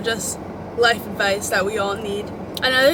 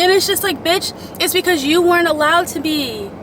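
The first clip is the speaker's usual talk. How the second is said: raised, higher, louder retort; exasperated outburst; 6 semitones higher, 5 dB louder than usual. Real, not acted. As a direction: snap back in frustration. Exasperated retort to older generations.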